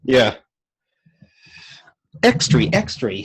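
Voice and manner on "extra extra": high newsboy cry, extra extra; newsboy call. Pretend. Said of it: "transatlantic accent".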